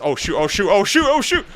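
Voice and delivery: quick burst of loud, rising alarm; real alarm. Real, not acted. Gamer caught off guard mid-story, alarmed yelps. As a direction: voice jumps up high as panic hits. Sudden threat during gameplay.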